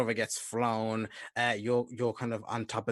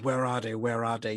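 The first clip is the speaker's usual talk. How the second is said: moderately raised, urgent demand; mock shouting; 5 dB louder than usual. Game master voicing hunters searching the village, mild shout. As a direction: call out like searching hunters, half-voiced. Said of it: "You hear them shouting".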